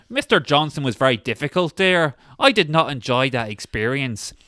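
put-on lightly done Northern Irish accent, polite; a hint of a Northern Irish office guy on the phone. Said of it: "Northern Irish guy".

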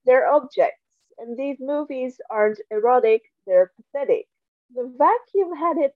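dry deadpan reading voice; reading aloud. Acted. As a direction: read the passage straight, deadpan. Reads book passage aloud.

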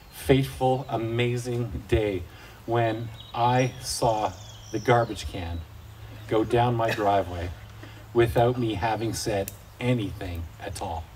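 slow, low, dramatic storytelling; hushed awe. Retold or imitated. Dad savouring the great garbage can day, hushed awe. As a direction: savour each phrase with mock-epic reverence.

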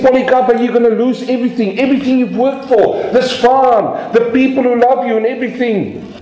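high, fast, pressing plea; urgent pleading. Retold or imitated. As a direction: rush the plea to make him give in. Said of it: "They said".

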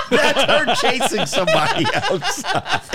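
high-pitched, laughing through the words; laughing hard. Real, not acted. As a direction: crack up while talking. Laughing over the clip.

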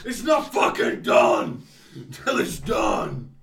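loud, high, drawn-out yell; exasperated shout. Real, not acted. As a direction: bellow it, stretching out the words. Heated outburst at finishing recording.

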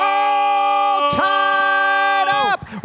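very high, slow sung-out call; drawn-out announcer call. Acted. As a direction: stretch it like a ring announcer.

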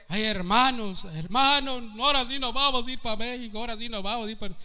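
high, fast mock wailing; mock panic. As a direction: imitate a panicked churchgoer fleeing. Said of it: "ahí están llorando". (imitación burlona de un hermano asustado, aguda y rápida)

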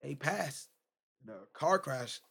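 very soft, halting retelling; barely voiced at first, with heavy pauses; friend's subdued reply. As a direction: imitate a friend quietly breaking bad news. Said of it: "he said it just like that".

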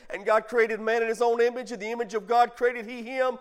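measured pulpit reading of scripture; preacher reading the verses aloud. Acted. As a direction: read it out like holy writ. Reading Genesis aloud to congregation.

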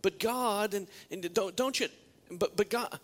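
whining to God. Acted. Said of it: "conversation with God where you say".

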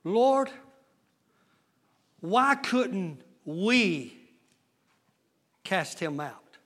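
soft, slow, low question; puzzled quiet asking. Acted. Disciples asking Jesus privately, quiet and slow. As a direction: humbly ask what went wrong. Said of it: "disciples come to Jesus and said".

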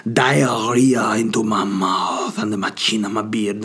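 hammed-up seductive whisper; mock sexy whisper. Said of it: "It sounds".

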